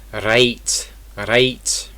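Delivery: "right" with a strong, almost rolled Scottish R. Shown as a demonstration. Teacher giving an example word, strong Scottish R in "right". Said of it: "there's a strong R sound".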